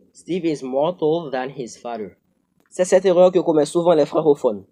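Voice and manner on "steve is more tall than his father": slow wrong example. Shown as a demonstration. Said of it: "Assurément, vous dites".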